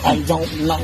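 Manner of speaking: laughing through "I don't know". Real, not acted. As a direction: chuckle it out, amused. Laughing at rival's whining.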